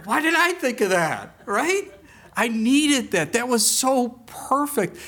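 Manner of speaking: high and laughing at himself. Real, not acted.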